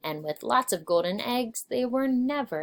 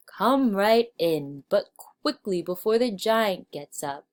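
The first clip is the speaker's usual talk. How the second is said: hurried giantess; 3 dB louder than usual. Acted. Giantess urges Jack inside.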